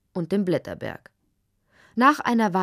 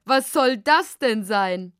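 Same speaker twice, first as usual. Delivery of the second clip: laughing; 5 dB louder than usual. Acted. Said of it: "konnte sich gar nicht wieder einkriegen".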